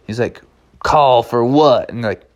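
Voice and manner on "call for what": slow southwestern cowboy drawl. Acted. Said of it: "talking with a nice southwestern drawl".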